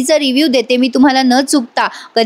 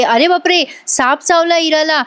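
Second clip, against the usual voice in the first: higher, panicked mock cry of fright; alarmed cry; 4 semitones higher than usual. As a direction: voice the girl's shocked alarm at the snakebite. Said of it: "बयो जोरात ओरडते".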